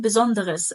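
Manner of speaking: besonderes with the e before the final s sounded; full-syllable besonderes. Shown as a demonstration. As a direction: give besonderes all four syllables. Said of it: "هيخليها besonderes صح". (نطق besonderes بحرف e واضح)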